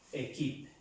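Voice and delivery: "equipe" as "é-kip", clear first E; "equipe" starting on "é", final E silent; acute-accent E. Shown as a demonstration. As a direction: model "equipe" correctly with a Spanish-like E first. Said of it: "y se pronuncia E".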